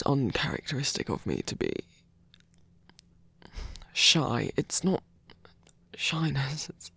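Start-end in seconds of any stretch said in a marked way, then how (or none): 6.0-6.7 whisper. Acted.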